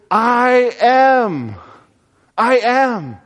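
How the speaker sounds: high, ringing declaration; bold proclamation. Acted. Jesus declaring himself to the disciples, ringing proclamation.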